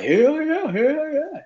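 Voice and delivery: high, excited hell yeah in another voice; playing the New Yorkers gushing about the South; eager yes. New Yorkers who moved south tell him they love it, high eager agreement. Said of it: "They was like".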